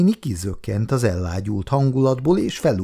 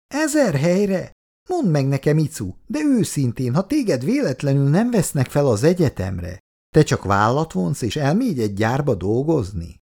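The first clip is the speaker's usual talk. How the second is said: higher, incredulous echo of ezer helyre; disbelieving challenge; 5 semitones higher than usual. Acted. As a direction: throw the words back in disbelief. Jutka challenges Icu, disbelieving. (hitetlenkedő, számonkérő hangon)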